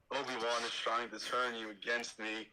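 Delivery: slow, a hint of brooding Anakin; lightly voiced Anakin, suspicious; slow understated Anakin. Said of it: "my Anakin is pretty sick".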